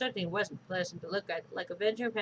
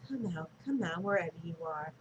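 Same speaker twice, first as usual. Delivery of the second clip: motherly singsong; 3 semitones lower, 4 dB quieter than usual. Acted. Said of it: "sang in her most motherly voice".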